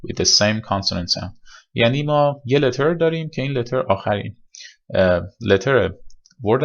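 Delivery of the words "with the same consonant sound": reads the rule slowly and carefully; slow rule reading. Shown as a demonstration. Teacher reading the pronunciation rule aloud, slowly. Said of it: "پرونانسیشن رولمون".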